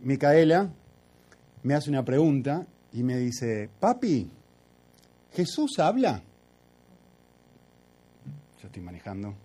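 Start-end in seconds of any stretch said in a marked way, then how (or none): 3.8-6.2 daughter's voice. Retold or imitated. Hija de cuatro años pregunta.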